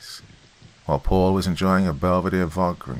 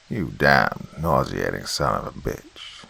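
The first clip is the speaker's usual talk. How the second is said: screaming creature; 8 semitones lower, slower than usual. A narrator's reading. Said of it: "screamed the Slender Man".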